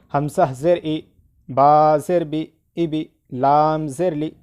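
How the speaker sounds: measured letter names, short final syllables; spelling drill recitation. Shown as a demonstration. Teacher leading learners through zer, drill recitation. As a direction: recite each letter with zer in a steady rhythm.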